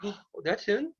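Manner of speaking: Blaze the Fire Dog. Pretend. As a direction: play a puppet dog's mock astonishment. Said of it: "This is Blaze the Fire Dog".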